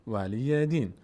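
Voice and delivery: "ولی دین" with each long vowel held; teacher's model of "ولی دین"; careful pronunciation demo. Shown as a demonstration. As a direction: articulate "ولی دین" clearly for pupils. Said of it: "دقت بکنید".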